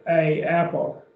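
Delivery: "a apple" as two colliding vowels; awkward wrong article. Shown as a demonstration. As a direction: separate "a" from "apple" with no n between. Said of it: "That doesn't sound good".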